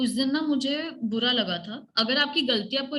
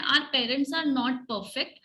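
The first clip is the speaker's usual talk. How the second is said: very slow, word by word; slow teacher dictation; much slower than usual. Shown as a demonstration. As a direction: spell it out slowly for the class. Teacher repeating phrase slowly.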